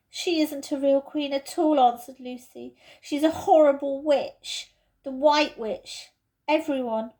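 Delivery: put-on girl telling of the witch, indignant; child's voice, lightly done; lightly voiced young girl. Lucy voiced, upset about witch.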